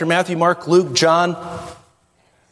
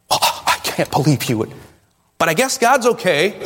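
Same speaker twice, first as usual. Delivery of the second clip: sarcastic mock shock; sarcasm. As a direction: feign being appalled, dripping with sarcasm.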